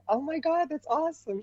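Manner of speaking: high, thrilled gush; excited squeal. Retold or imitated. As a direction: squeal with delight at the news. Excited reply to Dorinda.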